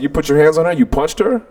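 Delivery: pressing, mildly barked accusation; retold barking. Accusing the boy of punching his sister, mildly barking. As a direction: drive each accusation at him, without shouting. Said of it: "literally barking in his ear".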